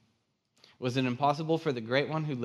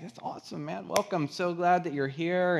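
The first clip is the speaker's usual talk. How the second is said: higher-pitched, upbeat retold greeting; enthusiastic welcome; 7 semitones higher than usual. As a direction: welcome a newcomer eagerly, pitched up. Greeting a newcomer dad, retold.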